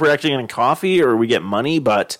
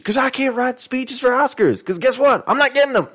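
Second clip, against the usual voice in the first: mock whine; 13 semitones higher than usual. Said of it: "They're like".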